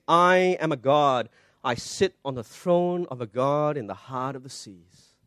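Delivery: hushed, slow, self-exalting king of Tyre; slow, soft proud king. Retold or imitated. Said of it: "And he says".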